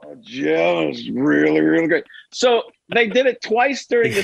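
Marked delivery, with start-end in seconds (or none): 0.0-2.0 gushing broadcaster voice; Tony Romo raving to Jim; Tony Romo impression. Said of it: "the bit was".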